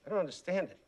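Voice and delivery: low, faked heartbroken voice; faked hurt. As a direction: pretend to be crushed. Fake wounded host.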